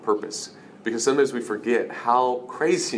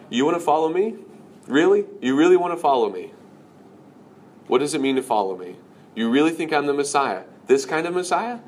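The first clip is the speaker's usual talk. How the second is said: incredulous, raised-pitch questioning; challenging; 4 semitones higher than usual. Acted. Jesus testing would-be followers, acted challenge. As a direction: press them with sceptical questions.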